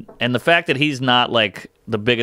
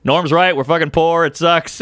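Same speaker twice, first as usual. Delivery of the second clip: callers agreeing; 5 semitones higher than usual. Retold or imitated. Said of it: "They go".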